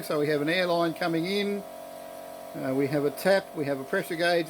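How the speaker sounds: yelling over noise. Real, not acted. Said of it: "I'm gonna yell over the".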